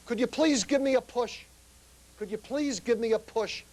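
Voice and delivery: a hint of a tipsy man begging; mumbling drunk. Drunk man at the door asking for a push, lightly voiced mumbling drunk. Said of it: "as he's stammering through alcohol".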